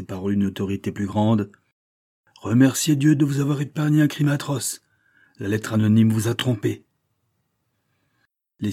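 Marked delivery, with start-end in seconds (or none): 2.4-6.8 authoritative. Acted. Verduret grips banker, speaks with authority.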